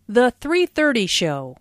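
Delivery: "three thirty" given the weight; emphasis falls on "three thirty", not on "show"; stress on three thirty. Shown as a demonstration. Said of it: "Notice the emphasis on three thirty".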